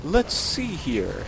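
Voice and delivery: slow, stretched-out stock phrase; knowing pondering. Shown as a demonstration. Player giving viewers a Let's Play tip, demonstrating a knowing, drawn-out ponder. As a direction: draw it out as if assessing the game. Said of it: "sound as if you know what you're doing".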